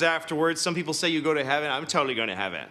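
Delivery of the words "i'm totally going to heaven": low, affected stock character voice; mock self-assured believer, voice dropped; put-on dopey voice. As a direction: do your one silly voice, pitched well down. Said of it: "this is the only voice I know how to do".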